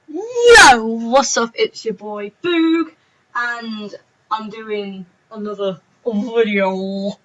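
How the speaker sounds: a lightly put-on vlogger intro, slow. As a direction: play a hyped vlogger opening the video, slowing down. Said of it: "What was that voice?".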